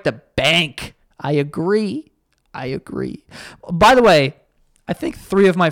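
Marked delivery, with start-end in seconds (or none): 2.5-3.2 breathless unvoiced aside; whispered echo. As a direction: mutter it back to yourself. Mock echo of own line.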